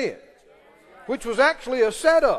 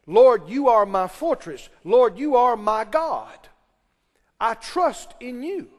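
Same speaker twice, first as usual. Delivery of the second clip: declaration of faith; 3 dB louder, slower than usual. Shown as a demonstration. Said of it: "you can say it like this".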